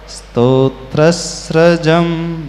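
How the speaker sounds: स्तोत्रस्रजम with a clear स्र cluster; careful recitation. Shown as a demonstration. Teacher demonstrating reading of स्तोत्रस्रजम, careful. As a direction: draw out स्तोत्रस्रजम deliberately. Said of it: "अब इसको कैसे पढ़ोगे?".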